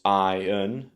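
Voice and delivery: "iron" as EYE-un; British "iron" stressed on eye; weak un ending in "iron", no r; British iron, first-syllable stress. Shown as a demonstration. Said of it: "stress on the first syllable".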